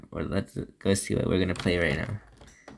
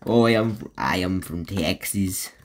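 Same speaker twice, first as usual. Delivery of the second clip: put-on Southern accent. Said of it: "I don't know why I've got a Southern accent".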